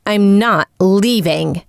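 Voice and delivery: slow words pushed through clenched teeth; through gritted teeth. Acted. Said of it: "through gritted teeth".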